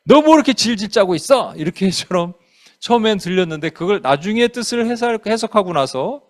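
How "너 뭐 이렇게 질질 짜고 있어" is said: imitating an impatient telling-off; mock reproach at someone's snivelling; imagined scolding rebuke. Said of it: "어떻게 들리냐면요".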